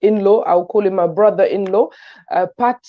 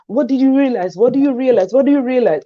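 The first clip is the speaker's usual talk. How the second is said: eager quiz; 5 semitones higher than usual. Retold or imitated. Proudly quizzing friends about her film.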